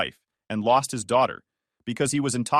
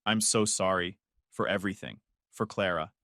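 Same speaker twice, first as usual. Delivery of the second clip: voice breaking; 4 semitones lower, 5 dB quieter than usual. Acted. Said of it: "voice breaking".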